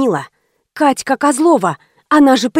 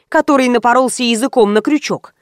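plain reading voice

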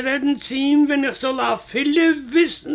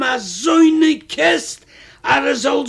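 indignant outburst. Retold or imitated. Husband railing to his wife against the thief, outraged. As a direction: let the outrage burst out.

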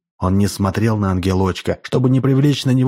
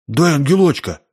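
a bit higher, gruff demand; rough demand; 5 semitones higher than usual. A narrator's reading. Boy rudely demands the angel from the hostess. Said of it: "Сашка грубо сказал".

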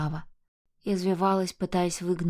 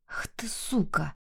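slow, voiceless hissed snarl; hissed curse; 4 dB quieter, slower than usual. Acted. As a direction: spit the insult out in a whisper. Mark snarls insult. (злобный шёпот)

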